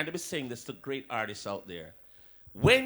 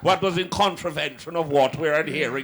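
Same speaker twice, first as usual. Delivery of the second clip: mock aristocrat; 6 dB louder than usual. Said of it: "the little aristocrat then".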